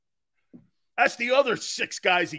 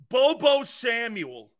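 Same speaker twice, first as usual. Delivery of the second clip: slow nickname through a laugh; laughing taunt; slower than usual. Real, not acted. Mocking the receiver, slow laughing taunt. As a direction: laugh it out slowly.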